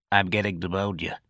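soft, sickly voice; sickly whine. Acted. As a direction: weakly plead illness. Sick patrolman pleads.

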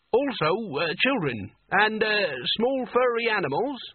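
high, halting and nervous; desperate plea. A narrator's reading. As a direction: stammer out a feeble plea. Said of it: "said Nigel desperately".

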